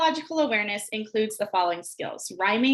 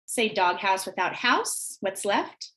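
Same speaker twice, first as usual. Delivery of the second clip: slow teacher prompt; slower than usual. Shown as a demonstration. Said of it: "start having them delete syllables".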